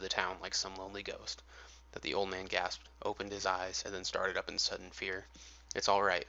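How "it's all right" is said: lightly voiced mild reporter, a touch brighter; a hint of the mild-mannered reporter; higher-pitched Clark Kent. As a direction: reassure the old man as meek Clark Kent. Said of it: "said the higher-pitched voice".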